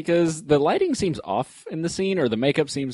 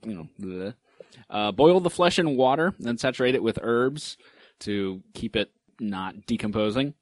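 hushed creepy legend telling. Acted. Recites head-shrinking steps.

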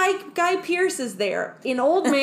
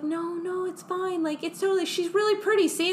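mock cooing nerd; 8 semitones higher than usual. Scientist cooing over snake.

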